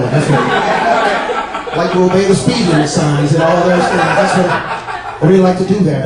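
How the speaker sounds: slow, controlled mock seething; obey every rule while silently furious; acted anger, measured and drawn out; suppressed anger. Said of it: "That piss where he's not saying shit".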